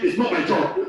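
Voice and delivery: lightly acted brush-off; a hint of a bored clerk; imitating a staffer refusing a relative; mock dismissive reply. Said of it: "Instead of saying".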